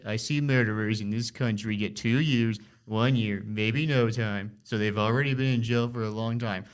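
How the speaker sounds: lightly voiced, drawn-out Trump imitation; a hint of Trump, slowing on short phrases; Trump impression. Host quoting Trump's reasons for the pardons, light Trump impression. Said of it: "That is a good Trump impression".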